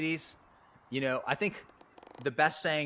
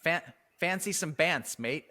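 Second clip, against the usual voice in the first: repeated slang offer; 6 semitones higher than usual. Shown as a demonstration. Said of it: "Say that again".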